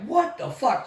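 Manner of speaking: high-pitched incredulous exclamation; retold disbelief. Hearing they are doing a spur ride, retold incredulity. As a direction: react as if floored, pitch leaping.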